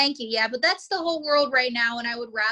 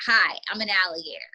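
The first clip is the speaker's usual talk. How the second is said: lightly voiced low alligator; gruff alligator; 4 semitones lower than usual. Shown as a demonstration. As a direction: model a gruff puppet greeting. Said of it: "give him a really gruff voice".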